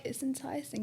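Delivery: unvoiced conspiratorial whisper; teasing whisper; whispered aside. Real, not acted. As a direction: breathe it like a secret.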